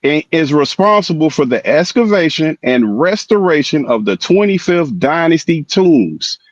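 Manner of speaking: slow, measured reading, word by word to prove a point. Shown as a demonstration. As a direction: read it out slowly and deliberately. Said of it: "Let me read it again slow".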